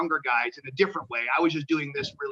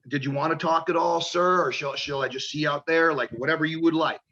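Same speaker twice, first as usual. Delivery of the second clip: super sweet. Retold or imitated. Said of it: "I'm just being super sweet".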